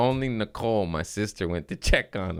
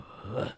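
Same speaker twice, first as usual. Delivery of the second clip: soft gasping "huh"; imitated choked laugh; 13 dB quieter than usual. Nephew imitating uncle losing his air, soft gasp. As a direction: catch the breath in a quiet huh. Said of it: "he would do this. He'd go".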